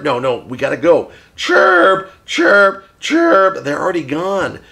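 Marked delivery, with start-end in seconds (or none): 1.3-3.6 parakeet chatter. Pretend. Puppet bird says goodbye.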